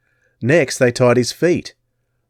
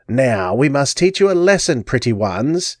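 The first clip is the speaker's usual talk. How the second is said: menacing crone; 3 semitones higher than usual. Acted. Crone threatening the captured boys. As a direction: threaten them sweetly. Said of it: "she said".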